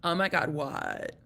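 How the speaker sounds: raspy Vegas voice, slowed; smoker's rasp. Real, not acted. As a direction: show off the hoarse smoker's rasp. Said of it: "that's my Vegas voice".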